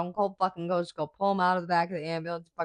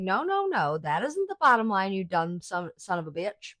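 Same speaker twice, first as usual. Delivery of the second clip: Stone Cold quote; 3 semitones higher than usual. Retold or imitated. Imitating Stone Cold yelling at his boss. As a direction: bark it like Stone Cold, mocking. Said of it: "He's like".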